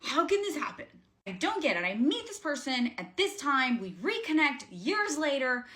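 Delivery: retold outburst of bewildered frustration; frustrated. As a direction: demand answers in high-pitched, baffled frustration. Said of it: "like, getting frustrated".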